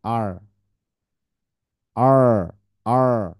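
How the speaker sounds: loud drilled আর; emphatic teacher call. Shown as a demonstration. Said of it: "আর হয়".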